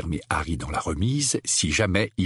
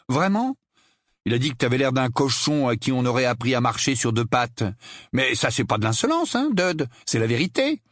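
raised, mocking reasoning; taunting Harry; 5 semitones higher than usual. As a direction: goad your cousin with feigned doubt. Harry goads his cousin. (ironie provocante, voix rehaussée)

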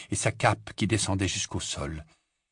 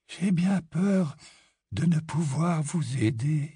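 high, slow, icy politeness; cold refusal; 6 semitones higher, slower than usual. A narrator's reading. Grey Lady turning Harry away, slow and cold. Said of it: "Un froid sourire".

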